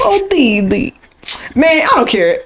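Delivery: high cartoon boy-genius voice; playful, high put-on scientist voice; Dexter. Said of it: "I'm trying to sound like Dexter from Dexter".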